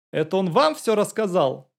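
squealing. A narrator's reading. Young man squealing at the detective, high alarmed squeal. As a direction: let the voice jump up in alarm. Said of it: "взвизгнул Керышев".

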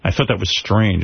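ordinary delivery

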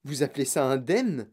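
mildly scornful challenge; indignant hiss. Acted. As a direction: ask it with restrained indignation. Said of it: "siffla madame T V".

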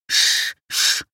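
a loud unvoiced shushing hiss; hushing. Everyone around hushes the schoolboy with a hiss. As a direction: shush the boy down hard. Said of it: "зашипели кругом".

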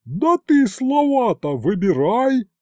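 громкий высокий медленный крик; наори на неё, выше и громче; орёт. A narrator's reading. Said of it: "снова заорала главбух". (главбух орёт на Тамарку, медленно, высоко и громко)

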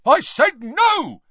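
high, loud slow shout. A narrator's reading. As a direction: roar the refusal. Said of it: "shouted the brutal-faced man".

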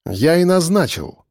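slow, composed answer; reply evenly, unruffled; calm. Acted. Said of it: "спокойно ответил я ему".

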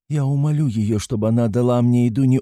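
high, firm, pleading mother; insistent. A narrator's reading. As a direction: press the point with rising urgency. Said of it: "настаивала Пульхерия Александровна".

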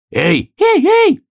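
high, loud protesting cries; squealed, indignant heys; calling out. A narrator's reading. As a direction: yell hey to make someone stop. Bee and sparrow protesting.

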